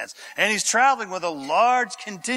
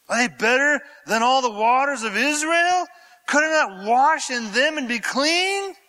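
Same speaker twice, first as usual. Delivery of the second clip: indignant Naaman rant; 8 semitones higher, 3 dB louder than usual. Acted.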